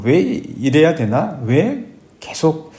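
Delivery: slow, sighing lament that sinks away; a touch of tired complaining to God. Retold or imitated. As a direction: let each question drag out with a weary sigh. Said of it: "이렇게 원망하고 탄식하고".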